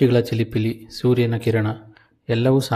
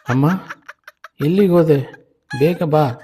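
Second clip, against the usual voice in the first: put-on a scared boy yelling for his mother; child shouting; 6 semitones higher than usual. A narrator's reading. Boy alone in the dark calls for his mother, shouting. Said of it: "ಕತ್ತಲಲ್ಲಿ ನಿಂತುಕೊಂಡು ಕೂಗ್ತಿದ್ದ".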